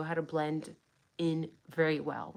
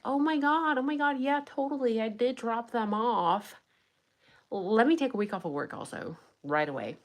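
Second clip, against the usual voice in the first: higher, hammed-up eager innocence; mock gushing driver; 4 semitones higher than usual. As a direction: play the overeager helpful witness, higher. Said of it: "you would be like".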